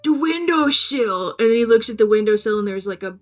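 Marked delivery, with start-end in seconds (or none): 0.0-1.3 slow, drawn-out cryptic caller; hammed-up mystery instruction; mysterious voice. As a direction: stretch it out mysteriously, a bit higher. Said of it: "it's, like, a mysterious voice".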